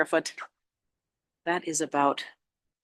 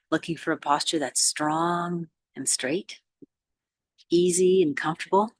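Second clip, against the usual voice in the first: measured meditation guide with long pauses; unhurried mindfulness instruction; guided meditation. Real, not acted. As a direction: ease them gently into posture and breath. Leads a meditation.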